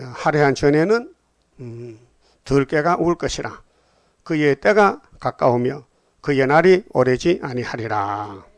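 loud declaimed verse with drawn-out ending; scripture reading. Acted. Preacher reading Isaiah's warning to the congregation, solemn declamation. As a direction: proclaim the prophecy, stretching the final words.

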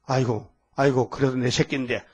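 low relenting sigh of words, imitated; relenting parent. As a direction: play God softening after a scolding. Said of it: "하나님이 막 야단치고는 돌아섰어". (야단치고 돌아서서 낮게 안쓰러워하는 부모 흉내)

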